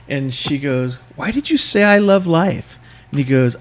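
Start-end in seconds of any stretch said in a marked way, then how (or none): 1.1-2.8 high-pitched mock questioning; imitated questioning woman. Woman quizzing the stranger about his yell, high imitated voice. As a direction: put on her higher voice to quiz him.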